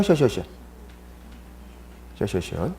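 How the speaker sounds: 셔셔셔 with a flat sh-uh vowel; 셔셔셔 said as shuh, not sho; slushy sh for s. Shown as a demonstration. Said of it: "쇼쇼쇼가 아니라고".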